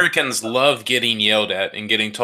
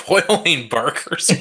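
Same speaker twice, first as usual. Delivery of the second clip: incredulous; 3 semitones higher, much slower than usual. Real, not acted. Incredulous at boiling burgers.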